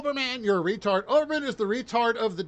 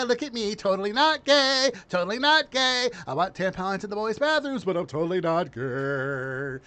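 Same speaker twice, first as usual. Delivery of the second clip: mock Walsh; 2 semitones higher than usual. Mocking Walsh to his audience, campy sing-song. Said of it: "Tim Walsh coming out in jazz hands".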